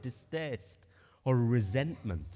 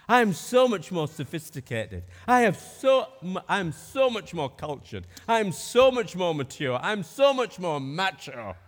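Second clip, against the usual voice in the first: louder, pompous boasting, ending in a Teesside sneer; mock arrogance; 3 semitones higher, 7 dB louder than usual. Preacher acting out a snob belittling others, mock arrogance. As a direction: lord it over them, puffed up. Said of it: "I'm finding this quite difficult to say".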